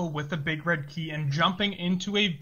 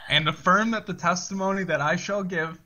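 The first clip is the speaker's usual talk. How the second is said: rote court oath. Acted. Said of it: "I say it, and then you follow me".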